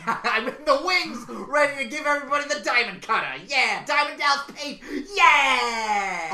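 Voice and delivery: loud, high wrestling promo; Seth Rollins. Acted. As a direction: hype the crowd, ending in a long holler. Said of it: "Seth Rollins is coming".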